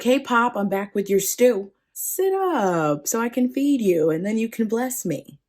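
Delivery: breezy, happy son's announcement. Acted. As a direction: sing out happily to your dad. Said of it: "Esau comes in all happy".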